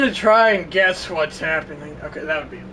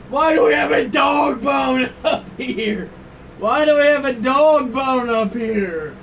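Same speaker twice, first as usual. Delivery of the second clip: higher-pitched, exclaimed complaint; exasperated outcry; 3 semitones higher than usual. Real, not acted. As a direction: cry out in disbelief at the game. Baffled outcry at the game.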